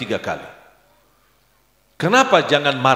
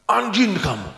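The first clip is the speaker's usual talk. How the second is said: mock angry insult; 8 semitones higher than usual. Jemaah marah memaki.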